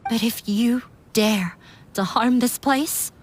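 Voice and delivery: low, unvoiced warning; hushed threat. Daughter warning her father in a hushed whisper.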